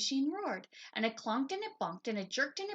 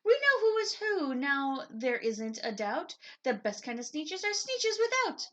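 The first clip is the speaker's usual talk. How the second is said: high, loud triumphant shout; proud cheering shout; 5 semitones higher, 5 dB louder than usual. A narrator's reading. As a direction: crow it to the beach. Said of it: "they let out a shout".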